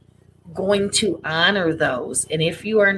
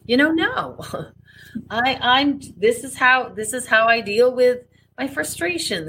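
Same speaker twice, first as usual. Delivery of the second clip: firm self-assertion; 6 semitones higher than usual. Retold or imitated. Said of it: "you kind of just said".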